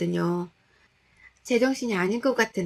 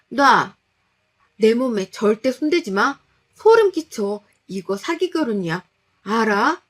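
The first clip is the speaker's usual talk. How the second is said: disgusted shout; 6 dB louder than usual. Acted. Wife screaming at husband not to touch her. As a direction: push him away with your voice.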